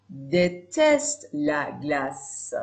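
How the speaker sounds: very slow, drawn out sentence; very slow example. Shown as a demonstration. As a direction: spell it out for beginners. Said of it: "slow example sentence".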